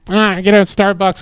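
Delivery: high, chirpy mock-flamboyant voice. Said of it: "flamboyant shit".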